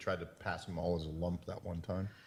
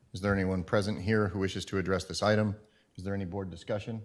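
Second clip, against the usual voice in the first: steady formal read of the agenda; formal meeting chair; 4 semitones higher, 15 dB louder than usual. Acted. Chair resumes reading procedure.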